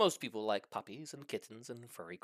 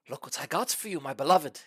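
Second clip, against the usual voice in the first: purring; 6 dB louder than usual. Acted. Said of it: "he purred".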